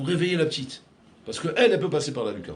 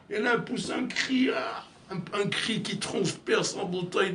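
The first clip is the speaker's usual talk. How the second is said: rising shout; 6 semitones higher, 3 dB quieter, slower than usual. A narrator's reading. Climax of the fire story.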